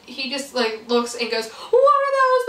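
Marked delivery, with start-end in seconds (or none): 1.5-2.5 high, loud meme yell; loud high shout back as he runs. Retold or imitated. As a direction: throw the taunt right back at her.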